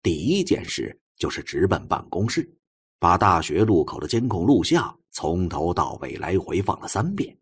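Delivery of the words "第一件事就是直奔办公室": usual speaking voice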